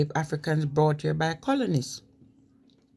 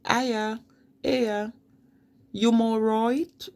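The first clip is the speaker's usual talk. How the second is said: Black Country Aya, higher, slow and sing-song; Black Country greeting; 6 semitones higher, much slower than usual. Shown as a demonstration. Greeting a newcomer in the Black Country, high slow Black Country accent.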